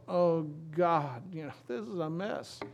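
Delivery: acted-out weary complaint; imitated hand-wringing lament; mock dismay. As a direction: groan it like an overwhelmed worrier. Acts out people fretting over troubles.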